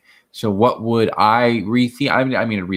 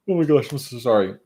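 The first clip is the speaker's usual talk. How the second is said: talking through a yawn; words stretched by a yawn; 3 semitones higher than usual. Real, not acted.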